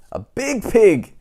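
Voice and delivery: put-on spring the punchline on the kids; slow dramatic storybook reveal; big reveal. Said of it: "storybook reveal".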